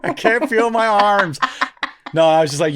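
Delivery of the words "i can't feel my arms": plaintive cry for help. Retold or imitated. Stranded boy calling for rescue, plaintive cry for help. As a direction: wail helplessly, slowing down.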